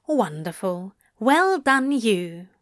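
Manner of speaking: a lightly voiced dry, plummy gentleman. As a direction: say it dry and plummy, a touch amused. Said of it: "a dry, plummy voice replied".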